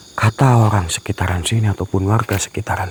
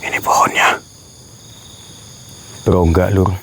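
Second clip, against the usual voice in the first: hushed, voiceless remark; whispering; 2 semitones lower than usual. Real, not acted. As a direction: whisper it to the viewers. Whispering while inspecting haunted tree. (berbisik pelan)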